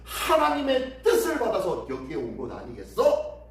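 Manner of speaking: lightly acted general's claim; mocking boast. Assyrian general claims God sent him, mild mockery. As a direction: boast with emphatic rhetorical questions. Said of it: "마지막으로 이렇게 조롱합니다".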